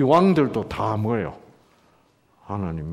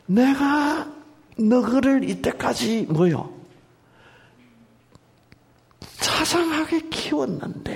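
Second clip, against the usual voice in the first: God's lament; 10 semitones higher, slower than usual. Acted. Preacher voices God's words.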